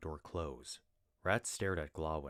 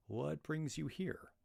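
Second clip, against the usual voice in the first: conversational; 10 semitones higher, slower than usual. Acted. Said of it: "said Glawin conversationally".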